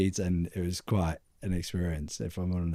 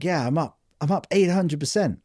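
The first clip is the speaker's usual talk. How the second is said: excited bragging; 7 semitones higher, 4 dB louder than usual. Retold or imitated. Crypto bro bragging in video.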